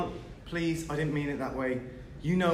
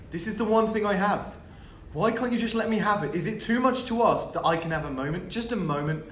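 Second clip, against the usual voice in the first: raised voice, pitched up in protest; mildly exasperated outburst; 4 semitones higher, 3 dB louder than usual. Acted. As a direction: plead to be left alone, fed up. Fed up, pleads with housemates.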